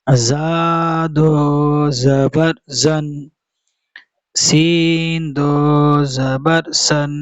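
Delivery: slow, drawn-out syllables on a level tone; Qaida spelling recitation. Shown as a demonstration. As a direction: chant each letter name steadily, holding the long vowels. Leads spelling recitation drill.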